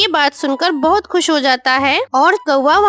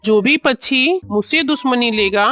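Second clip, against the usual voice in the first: villainous kite, gloating; 4 semitones lower than usual. Acted. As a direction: lower voice of a threatening bird of prey. (धमकाती चील की नीची आवाज़)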